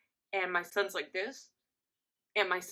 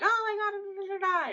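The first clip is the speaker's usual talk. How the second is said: high, loud gushing babble; imitated family excitement; 5 dB louder than usual. Family hearing about twins, imitated high loud excitement. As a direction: squeal and babble the reaction.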